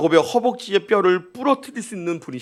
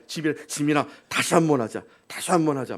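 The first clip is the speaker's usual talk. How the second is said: coaxing; 2 semitones lower, 4 dB quieter than usual. Retold or imitated. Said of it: "막 이렇게 꼬셨어요".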